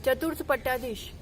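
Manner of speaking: ringing call of praise to the gurus; calling out jai to the gurus; devotional acclamations. Acted. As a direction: lead the crowd in jai calls.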